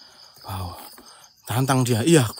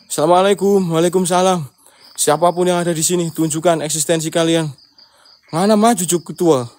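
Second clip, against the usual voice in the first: loud challenge; 5 dB louder than usual. Real, not acted. Challenging ghosts, calling out loudly.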